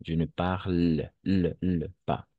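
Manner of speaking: parle broken off and its l sound repeated before pas; careful pronunciation. Shown as a demonstration. Teacher fixing the student's parle, careful pronunciation. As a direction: linger on the end of parle, isolating the l. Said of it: "on ne prononce pas".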